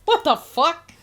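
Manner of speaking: high, loud, stunned what the fuck; shocked. Real, not acted. Reacting to the Picasso claim, loud shocked disbelief.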